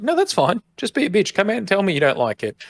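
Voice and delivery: high, teasing plea; mock pleading. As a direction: egg her on in a high voice. Teasing the assistant, acted quote.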